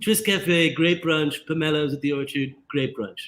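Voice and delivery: reading it in a light Boston accent. Shown as a demonstration. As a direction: say it like a North Boston local. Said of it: "Is that your Boston accent?".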